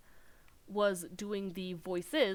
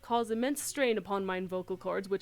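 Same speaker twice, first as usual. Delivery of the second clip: a hint of ornate archaic eloquence, louder; Urianger's verbose manner; 7 dB louder than usual. Streamer mocking Urianger's flowery speech, a touch grand and louder. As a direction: speak in grand old-fashioned style. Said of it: "vocalizing Urianger the verbose manner which he speaketh".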